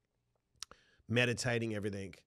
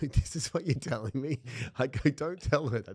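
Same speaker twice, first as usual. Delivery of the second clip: mock outrage; 3 semitones higher, 5 dB louder than usual. Retold outburst at the surgeon.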